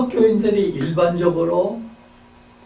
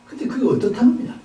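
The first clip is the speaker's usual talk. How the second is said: higher, fast skeptical challenge; a preacher voicing the skeptic's retort; challenging question; 8 semitones higher, faster than usual. Shown as a demonstration. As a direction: fire the question back with doubt. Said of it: "아까 얘기한 대로".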